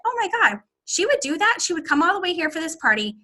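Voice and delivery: high-pitched, astonished retelling; amazed new consultant. Retold or imitated. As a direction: voice a consultant who can't believe it. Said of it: "want this consultant to be like".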